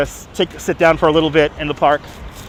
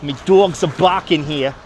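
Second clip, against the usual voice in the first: put-on Brooklyn accent. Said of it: "my Brooklyn accent will get more and more thick".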